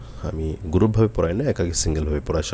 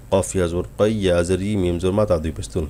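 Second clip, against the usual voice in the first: wrong way, spelled in one unbroken stream; run-on spelling. Shown as a demonstration. Teacher showing students the common mistake, spelled in one run. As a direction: rattle the letters off without stopping. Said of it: "এভাবে একটানা বানান করি".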